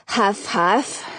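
breathless huffing; out of breath from the stairs; climbing stairs. A narrator's reading. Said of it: "I can't talk and climb at the same time".

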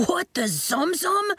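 panicked eighth grader shrieking; shrieking boy. A narrator's reading. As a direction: cry out in alarm as a chimp lands on you. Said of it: "the boy shrieked".

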